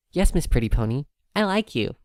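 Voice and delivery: high, bright little filly voice; a small foal full of trust; little filly proudly pointing at the sky; happy filly. Acted.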